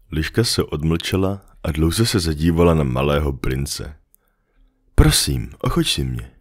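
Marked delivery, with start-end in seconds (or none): 5.0-6.3 pleading. Acted. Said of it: "řekla".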